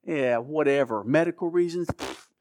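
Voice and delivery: mild mock scoff, slow on whatever; imagine Mark brushing off "Medical reasons" as a lame excuse; a touch of eye-rolling disbelief; sarcastic dismissal. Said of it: "I just know Mark's thinking".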